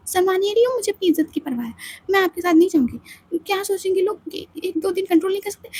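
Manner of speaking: fast, insistent refusal; stubborn young wife. Acted. Aditi refusing to leave the bathroom with Samaira, stubborn. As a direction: dig in and refuse.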